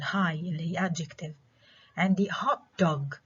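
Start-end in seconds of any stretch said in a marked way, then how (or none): 2.3-3.2 HOT dog, weight on HOT; first-component stress. Shown as a demonstration. Teacher giving another compound example, first-component stress. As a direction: stress "hot", let "dog" fall back. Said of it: "ستريس على الكومبوننت الأول".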